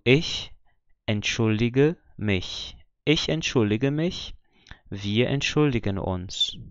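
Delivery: entschuldige and entschuldigen slowly, with a hard G; careful model of entschuldige, hard G not CH; normal G sound. Shown as a demonstration. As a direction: say entschuldige with G as in go, opening a new syllable. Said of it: "ele ganha o som de G normal".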